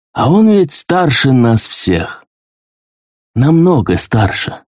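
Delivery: slow, wistful and a little envious; lightly voiced, mildly sad admiration; a touch of sadness. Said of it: "Как-то грустно, словно немного завидуя".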